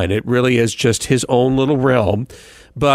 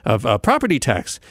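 ordinary talk

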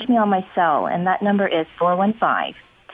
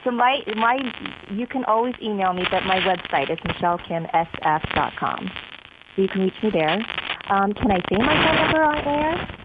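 tinny landline phone line; over a landline phone. Real, not acted. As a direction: speak down a bad phone line. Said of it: "We have a really bad connection with your phone".

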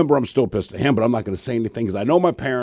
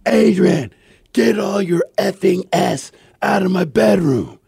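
retold scream; 6 semitones higher, slower than usual. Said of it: "I scream at the top of my lungs".

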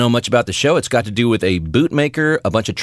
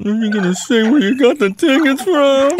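high, eager puppy-eyed plea; pleading puppy voice; 13 semitones higher, 3 dB louder than usual. Retold or imitated. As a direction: beg like a little puppy with big eyes. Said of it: "like a little puppy with big eyes going".

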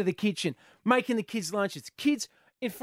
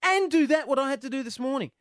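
higher, louder, amazed outburst; impassioned; 8 semitones higher, 5 dB louder than usual. Real, not acted. Dad telling mums listening how hard their job is, impassioned. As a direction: rave in disbelief at how mums cope.

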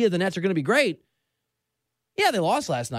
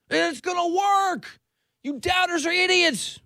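mock confident shout; 9 semitones higher, slower than usual. Mocking confident fans.

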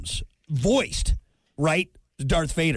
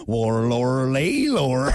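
imitated sound effect; 6 semitones lower, much slower than usual. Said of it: "That was from Star Wars".

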